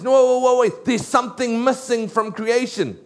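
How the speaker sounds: God catching himself mid-creation; God realising something is missing, a playful alarm; startled God. Acted. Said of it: "it's almost like God says".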